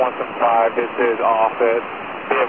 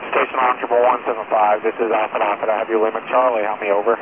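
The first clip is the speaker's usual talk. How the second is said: distant voice through a radio receiver; crackly military radio; 2 semitones lower than usual. Real, not acted. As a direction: heard over a crackling radio link. Radio check over military channel.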